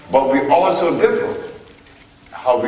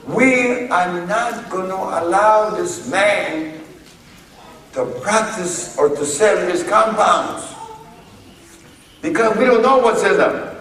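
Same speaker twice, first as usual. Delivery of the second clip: indignant official; 7 semitones higher than usual. Retold or imitated. FDA refusing to let him sell, indignant official. Voices the FDA banning his products.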